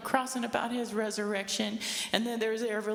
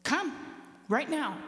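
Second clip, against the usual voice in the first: defiant shout; 5 semitones higher than usual. Retold or imitated. Daughter daring her angry mother, defiant shout. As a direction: dare her to come at you. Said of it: "I told my mother that".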